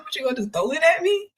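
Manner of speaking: high, mocking disbelief; laughing taunt. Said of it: "I just started laughing".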